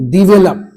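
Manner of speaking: डेवलप said 'di-VE-lup'; short 'di' opening in डेवलप; correct pronunciation. Shown as a demonstration. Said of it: "डेवलप नहीं". (डेवलप को 'डिवेलप' बोलें)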